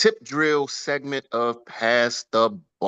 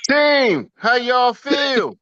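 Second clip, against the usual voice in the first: loud, high, slow rallying call; hype shout; 12 semitones higher, 5 dB louder, much slower than usual. Real, not acted. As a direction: pump up the crowd. Host fires up the team.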